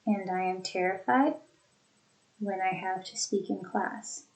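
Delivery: two chunks split after terrified; two thought groups. Shown as a demonstration. Teacher repeating two groups for students. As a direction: pause after terrified, soft second half. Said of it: "Two thought groupings".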